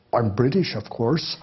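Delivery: a light mock-English accent. Soldier answering where he is from, mild English accent. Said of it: "with an English accent".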